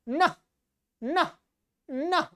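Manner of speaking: न as short, separate 'nah'; light breathed ending. Shown as a demonstration. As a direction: clip each न with a slight puff of h. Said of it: "हल्का सा ह के समान ध्वनि करें". (न के बाद हल्का सा ह)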